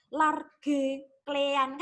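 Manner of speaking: klean with a hard k and split vowel, two beats; wrong pronunciation. Shown as a demonstration. Teacher demos how students mispronounce it, two syllables. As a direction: Large stretched as lar-ge. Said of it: "pronunciation-nya salah".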